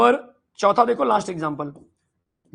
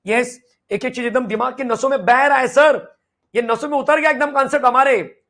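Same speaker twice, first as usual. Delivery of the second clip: mock-eager pupil answering sir, a bit louder; eager student voice; 3 semitones higher, 5 dB louder than usual. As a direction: play the keen student, higher and louder. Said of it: "हर एक बच्चा ये चीज समझ पा रहा है". (उत्साही छात्र की नकल, थोड़ा ऊँचा और ज़ोर से)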